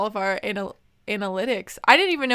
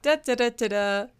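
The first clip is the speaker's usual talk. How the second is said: heavy breathing; 3 semitones higher than usual. Shown as a demonstration. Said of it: "I sound so out of breath on this podcast".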